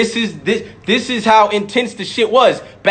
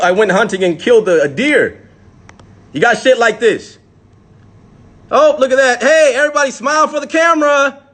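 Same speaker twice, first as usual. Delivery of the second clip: mock cheery spectator; 2 semitones higher than usual. Mocking the lynching crowd to the viewers, a chipper onlooker's voice. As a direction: play a cheerful crowd member pointing at the sight.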